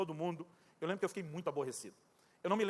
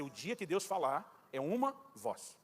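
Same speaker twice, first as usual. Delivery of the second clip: naive belief; 3 semitones lower, 4 dB quieter, much slower than usual. Retold or imitated. His childhood belief quoted.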